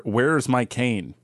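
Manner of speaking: put-on slow creaky old-man voice; young person faking old. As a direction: drag it out like a frail old man. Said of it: "His first words were".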